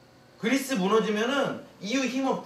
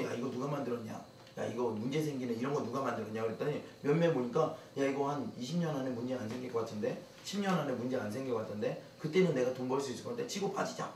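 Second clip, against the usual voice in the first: scheming bankers; 6 semitones lower, 6 dB quieter than usual. Acted. Voicing scheming Wall Street bankers.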